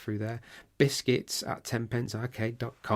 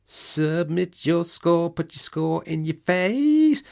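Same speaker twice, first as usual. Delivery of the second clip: big loud announcer call; announcer shout; 7 semitones higher, 8 dB louder, slower than usual. Acted. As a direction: bellow it like an arcade hype man. Catchphrase call-out.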